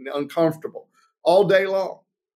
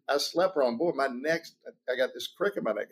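softer, a mild groan in the voice, husband nursing a stiff neck; pained complaint; 3 semitones lower, 8 dB quieter than usual. Acted. Husband tells his wife he slept wrong, softly pained. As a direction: say it low and sore, like you just woke up hurting.

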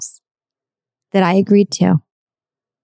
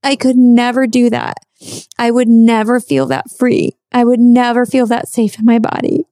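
higher, strained disbelief, not quite shouting; incredulous self-doubt; 6 semitones higher than usual. Retold or imitated. To herself, watching the free topless women, high incredulous voice. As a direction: pitch up as if she can't believe herself. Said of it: "And then I'm like".

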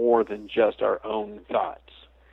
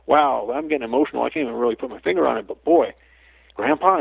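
mildly choked up; 4 semitones higher than usual. Retold or imitated. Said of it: "and you're going".

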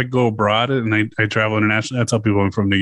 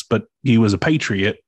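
a touch of Louisiana accent on patriot; Southern accent. Real, not acted. Host hears his Louisiana accent. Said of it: "I love the fucking accent you just threw".

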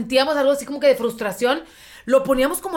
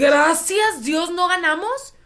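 slow relieved quote; 5 semitones higher, slower than usual. Retold or imitated.

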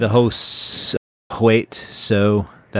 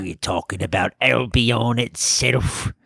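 mock British accent; slower than usual. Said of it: "can't do my British accent anymore".

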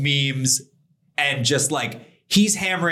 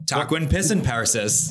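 put-on Scottish accent. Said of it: "like, a Scotch accent".

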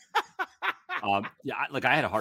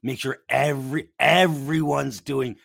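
mock voicemail voice; 6 semitones higher, 6 dB louder, slower than usual. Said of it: "I get a camera voicemail".

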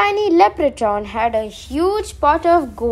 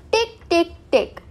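ticking sound; 6 semitones higher than usual. A narrator's reading. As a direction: tap out a tiny hammer. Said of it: "went the leprechaun's hammer".

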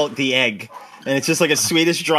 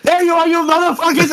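furious man spotting them; 11 semitones higher, 3 dB louder than usual. Retold or imitated. Angry driver finds the kids.

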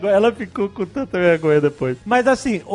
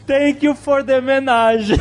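raised mock quote of the wife; quoting the blunder; 7 semitones higher than usual. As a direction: quote her blunder a bit higher. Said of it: "O que que ela falou em inglês".

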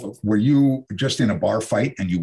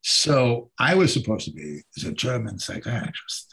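German accent. Shown as a demonstration. Actor demonstrating his stage psychiatrist role, in a German accent. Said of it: "have an accent like this".

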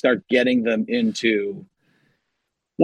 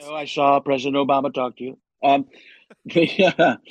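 Donald Trump. Acted. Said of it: "doing the forty-fifth President of the United States, Donald Trump".

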